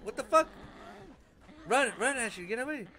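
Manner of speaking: panicked yelling; being chased. Real, not acted. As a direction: yell it in a panic.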